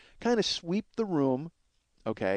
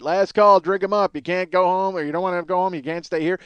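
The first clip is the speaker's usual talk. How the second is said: lightly voiced bouncer calling last call, raised pitch; bouncer closing up; 3 semitones higher, 4 dB louder than usual. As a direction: imitate a bouncer clearing out the club. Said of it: "when they start with that".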